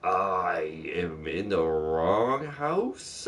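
whispered confession, slow; mock whisper admitting the wrong house; sheepish whisper. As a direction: breathe it out, embarrassed. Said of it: "And I was like".

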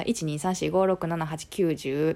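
running count in Kansai accent; Kansai intonation. Shown as a demonstration. Showing listeners natural Kansai counting, Kansai intonation. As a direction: count straight through with Kansai pitch. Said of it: "関西弁でそのまま言ったらさ".

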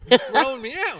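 laughing. Real, not acted. Laughing banter.

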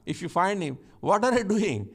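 mock reproof. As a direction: scold him like a friend who caught him out. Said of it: "You will reprove him and say".

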